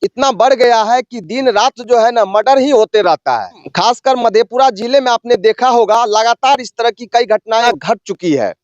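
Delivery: field reporter's formal delivery; news report. Real, not acted. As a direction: report it to camera in measured phrases.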